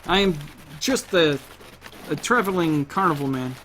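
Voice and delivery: halting, badly faked German accent; failed German accent. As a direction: attempt a German accent and miss. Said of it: "I can't do a damn German accent".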